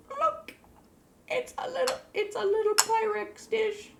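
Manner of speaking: way up high, gushing over a tiny dish; cutesy high squeal. Real, not acted. Showing off a tiny dish to viewers, squealing high with delight.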